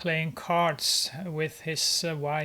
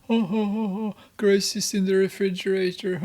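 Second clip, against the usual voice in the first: mocking crackhead voice, fast, louder, a little higher; mocking laughter; 3 semitones higher, 4 dB louder, faster than usual. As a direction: jeer at her through laughs, quick and loud.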